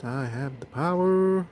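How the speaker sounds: lightly hammed-up hero's rallying cry, held back in volume; He-Man catchphrase. Reviewer lifts the toy to say the magic word, mock-heroic. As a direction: draw out the last word like a cartoon hero. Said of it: "say the magic word".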